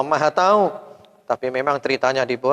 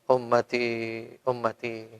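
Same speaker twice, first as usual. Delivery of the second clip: slow, fading, softer weeping plea; tearful prayer; 2 semitones lower, 4 dB quieter, slower than usual. Retold or imitated. Prophet weeping for his people at night, slow and softer. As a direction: pray brokenly for your people. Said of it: "beliau nangis".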